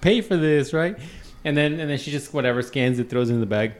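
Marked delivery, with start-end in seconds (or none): 0.0-0.7 higher, softer mumbling to oneself; feigned confusion. Acted. Customer fiddling with the card at checkout, feigning confusion. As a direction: play innocently puzzled, voice up.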